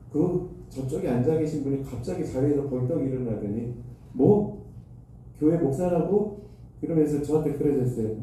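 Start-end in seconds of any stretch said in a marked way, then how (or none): 4.1-6.4 half-hearted imitation of a startled official's yell; retold angry shout. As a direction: toss out a mild mock yell, higher in pitch. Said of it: "소리를 막 지르시는 거예요". (놀란 행정실 책임자를 흉내 낸 가벼운 고함)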